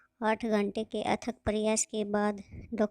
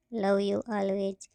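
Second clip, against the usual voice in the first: tender; much slower than usual. Acted. End of Prerna's love letter.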